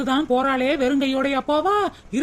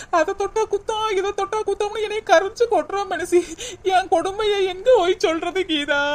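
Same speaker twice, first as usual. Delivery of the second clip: higher, near tears, pleading her misery; tearful complaint; 4 semitones higher than usual. Acted. Daughter-in-law near tears, complaining to her friend about her mother-in-law. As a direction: let the hurt rise into a whimper. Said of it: "அழுகாத சின்ன பொண்ணு".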